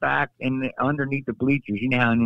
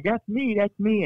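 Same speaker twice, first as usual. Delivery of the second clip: retold excited, pointing up; 10 semitones higher than usual. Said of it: "I'm like".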